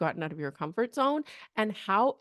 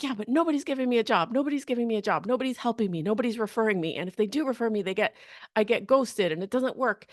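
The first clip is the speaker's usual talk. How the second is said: mildly frustrated mock complaint, quick at first; 2 semitones higher, faster than usual. Coach imitating a job seeker getting no referrals, frustrated. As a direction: pile up the complaints, lightly acted. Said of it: "they might be so frustrated and they'd be like".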